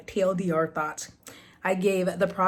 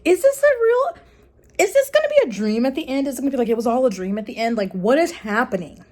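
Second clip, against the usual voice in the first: much higher and louder, rushing; incredulous inner voice; 6 semitones higher, 6 dB louder, faster than usual. Retold or imitated. Reacting to a confusing Grady Hendrix novel, high incredulous squeal. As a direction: squeal in disbelief at the plot. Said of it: "and I'm like".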